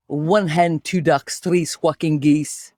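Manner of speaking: warm-up chant in a Scottish accent. Shown as a demonstration. Host leading co-host through warm-up, Scottish accent. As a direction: recite it with a Scottish accent, drawing out the last phrase. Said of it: "That was hard with the Scottish accent".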